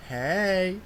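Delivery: bright upbeat hey, pitch lifted; friendly hey. Shown as a demonstration. Greeting his daughter with a cheerful "Hey". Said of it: "fairly different from if I say".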